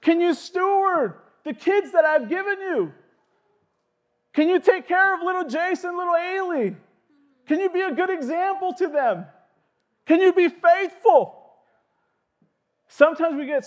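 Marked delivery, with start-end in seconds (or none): 0.0-11.5 God's gentle question. Retold or imitated. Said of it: "And he's saying".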